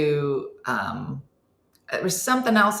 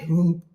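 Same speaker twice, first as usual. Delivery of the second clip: imitated pedal slip.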